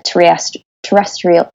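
false start on "terrestrial", then a second try; "terrest-" broken off, then "terrestrial" attempted whole; stumbling over the word. Real, not acted. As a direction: trip on "terrestrial", break off and restart it. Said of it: "I can never say that word".

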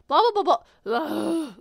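loud, high "blah blah" and a groan; mock blooper babble. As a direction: imitate flubbing a word, babbling then "ugh". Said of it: "after I mess up on a word".

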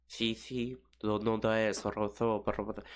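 lightly mocked Castilian lisp; lisped Spain Spanish. Spaniard nobody can understand, lightly mimicked Castilian lisp. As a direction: imitate a lisping Spain accent in Spanish. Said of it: "Spanish people can't even speak Spanish properly".

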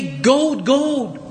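"Gold, gold" as two separate, stressed words; emphasis by repetition. Shown as a demonstration. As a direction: say gold, then gold, each one weighted. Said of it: "say it with, you know, multiple times".

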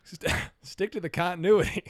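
high, loud catchphrase broken by laughter; mock scolding. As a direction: scold jokingly while cracking up. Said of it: "I'm gonna say that the next time".

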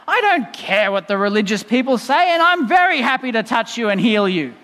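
lightly acted annoyance, leaning on the words; a touch of exasperated insistence; annoyed. Preacher voicing an annoyed Jesus to the leper, mildly exasperated. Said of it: "Jesus could be really annoyed, going".

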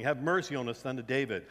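calling out. Retold or imitated. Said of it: "these two blind guys calling".

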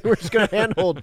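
hammed-up carefree crew; mock crew voice. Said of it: "it's like their tripod broke".

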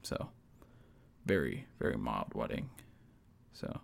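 low gravelly impression of dad. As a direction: drop low and rasp it out like dad. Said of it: "I gotta get my dad's gravelly voice".

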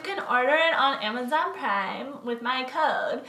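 lightly voiced Instagram model; bubbly sorority girl. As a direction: gush like an influencer selling a product. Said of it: "that was an Instagram model character".

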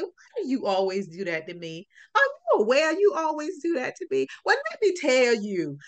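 sarcastic teasing complaint to the boss; playful mock accusation, rising toward the end; comical sarcastic. Retelling how she confronted the vice principal, comical and sarcastic. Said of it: "in my comical, sarcastic way".

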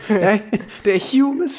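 very high squeaky voice; squeaky mock voice. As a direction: squeak the word out in a silly voice. Hamming up the word, very high.

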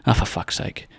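soft, voiceless mutter; muttered exasperation. Retold or imitated. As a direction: imitate quiet, passing annoyance. Retold everyday mild irritation.

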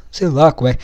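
usual speaking voice

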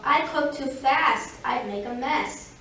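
lightly voiced, emphatic rabbit; rabbit character. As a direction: lift the excuse a little as the rabbit. Rabbit's excuse against tortoise's.

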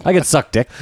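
hammed-up outrage at being called straight; mock indignant. Retelling his comeback to the doorwoman, mock outraged.

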